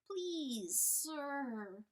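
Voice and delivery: high, pleading whine; whining. Acted. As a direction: whine up at him. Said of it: "whined Chalcedony".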